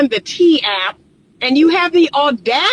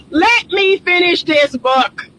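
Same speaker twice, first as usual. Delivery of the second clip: said higher through the laugh; 5 semitones higher than usual. Retold or imitated. Vlogger repeating her thought, laughing. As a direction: let it out half laughing. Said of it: "I'm thinking".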